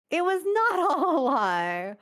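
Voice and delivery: high and laughing, with a laugh mid-line on "not". Real, not acted. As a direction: repeat it, breaking into laughter.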